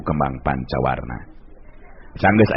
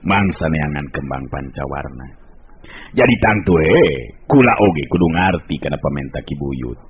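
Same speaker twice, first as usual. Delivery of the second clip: lightly voiced humble father, low; respectful father; 5 semitones lower than usual. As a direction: answer the elder low and deferentially. Jaya Raga answers respectfully.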